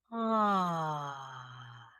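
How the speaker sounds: soft low ah with breath first; gentle ah. Shown as a demonstration. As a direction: sigh into a soft ah. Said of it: "Very gentle".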